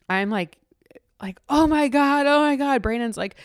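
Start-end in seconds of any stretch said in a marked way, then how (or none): 1.5-2.8 high-pitched mock scream of amazement; retold joyful screaming. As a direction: imitate overwhelmed screaming, pitched high but held back. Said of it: "Brandon and I are both, like, screaming".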